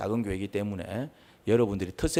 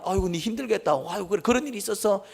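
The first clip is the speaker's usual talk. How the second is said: sympathetic; 11 semitones higher than usual. Acted. Voices sympathy for wronged person.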